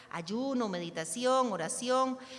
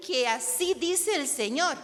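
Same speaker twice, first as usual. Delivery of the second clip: loud, higher, drawn-out prophetic proclamation; profeta solemne; 7 semitones higher, 6 dB louder, slower than usual. Shown as a demonstration. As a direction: proclaim it slowly like a self-appointed prophet. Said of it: "No podemos decir así". (proclamación profética, fuerte, aguda y lenta)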